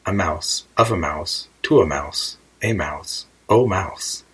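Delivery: reciting cases, each one set apart; grammar recitation. A narrator's reading. Alice recalls her brother's Latin grammar, reciting. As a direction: list them like a Latin declension. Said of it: "seen in her brother's Latin grammar".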